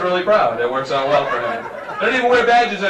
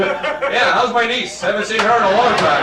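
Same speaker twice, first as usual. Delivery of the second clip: higher-pitched, lightly southern cop; mock southern lawman, pitched up; southern accent; 5 semitones higher than usual. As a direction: put on a mild southern trooper accent. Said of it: "you develop a southern accent".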